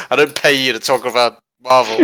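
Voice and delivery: hammed-up boss scolding staff; angry boss.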